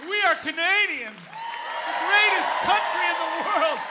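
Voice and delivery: loud, high patriotic cry to a crowd; rousing proclamation. Real, not acted. Hyping the hometown crowd.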